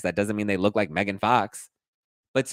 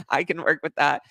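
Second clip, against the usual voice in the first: imitated nervous chuckle, higher pitch; nervous laughter; 6 semitones higher than usual. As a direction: laugh uneasily into the words, mimicking him. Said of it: "like, nervous laughter".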